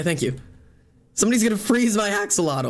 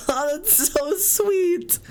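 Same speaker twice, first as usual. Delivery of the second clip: much higher, slow, voice breaking in tears; teary; 12 semitones higher, much slower than usual. Real, not acted. Streamer thanking friend for the letter, tearful and slow. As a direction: choke it out through tears. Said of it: "We're all crying now".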